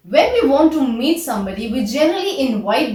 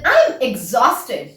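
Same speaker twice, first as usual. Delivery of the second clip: slow, deliberate model phrase; much slower than usual. Shown as a demonstration. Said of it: "the better English is".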